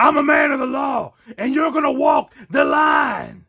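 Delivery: fired-up, shouting cop voice. Big Boss Man confronts someone over a repaint violation, in a passionate Big Boss Man voice. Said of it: "gets really passionate about repaint violations".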